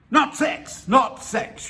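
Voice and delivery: acted high-pitched, insistent denial; an old man's jumpy disclaimer; hasty protest. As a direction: protest it high, punching each "not". Man hastily denies sexual motive.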